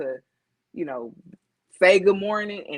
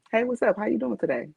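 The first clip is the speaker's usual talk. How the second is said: friendly blended greeting; 9 semitones higher, faster than usual. Shown as a demonstration. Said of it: "I can blend it".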